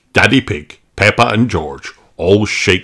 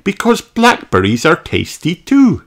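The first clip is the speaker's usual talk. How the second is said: high, louder cheerful mum voice; Mummy Pig greeting; 10 semitones higher, 3 dB louder than usual. A narrator's reading. Mummy Pig greets George, high and louder. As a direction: greet the little boy as his mother. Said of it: "says Mummy Pig".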